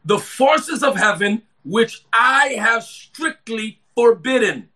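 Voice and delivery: slow, deliberate reading from the pulpit; scripture reading. Real, not acted. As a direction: read the verse out slowly, phrase by phrase.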